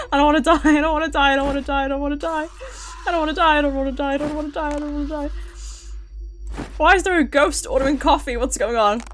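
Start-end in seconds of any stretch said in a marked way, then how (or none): 0.1-5.3 rapid-fire frightened repetition, fading away; panicked pleading. Real, not acted. Panicked chanting in horror game.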